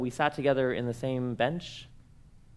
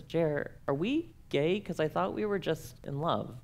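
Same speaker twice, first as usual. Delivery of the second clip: slow and softer, earnestly asking; honest, sincere question; 3 semitones higher, 6 dB quieter than usual. Retold or imitated. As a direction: ask it gently and sincerely. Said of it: "honestly says".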